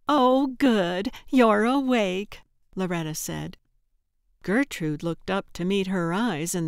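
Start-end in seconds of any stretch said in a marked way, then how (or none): 0.1-2.4 bright greeting. Acted. Loretta greets cheerfully.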